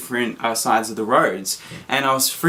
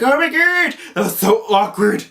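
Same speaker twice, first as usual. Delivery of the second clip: very high, louder mortified cry; embarrassed shock; 8 semitones higher, 4 dB louder than usual. Retold or imitated. Fleeing the parked car, a high embarrassed squeal. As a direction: squeal it like you just got caught.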